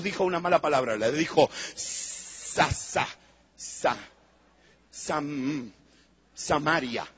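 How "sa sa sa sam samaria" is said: reluctant stammer. Acted. Jesus forced to say Samaria.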